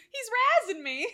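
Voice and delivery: high quote through laughter; laughing quote. Retold or imitated. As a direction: say it giggling. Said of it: "I just laugh so hard when she goes".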